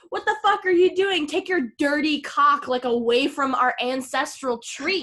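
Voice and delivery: mock scream of outrage, settling toward talk; retold screaming. Retelling a villager scolding a man at the sacred tree, mock screaming. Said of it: "is screaming at him in Swedish".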